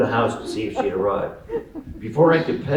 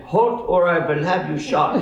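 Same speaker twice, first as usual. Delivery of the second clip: Colonel Klink; 7 semitones higher than usual. Acted. Old man threatening fleeing boy, high German accent. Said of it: "He might have added".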